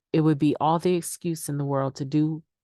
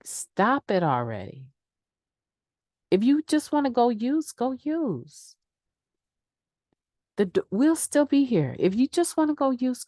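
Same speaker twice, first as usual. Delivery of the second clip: blunt recovery friend; 4 semitones higher than usual. Retold or imitated. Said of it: "They're very quick to say".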